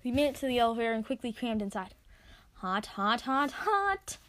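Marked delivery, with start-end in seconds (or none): 3.2-4.2 yelped. Acted. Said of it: "I yelped".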